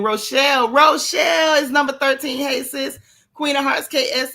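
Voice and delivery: loud, excited call-out. Real, not acted. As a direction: shout the name across the room. Calling out a viewer's name.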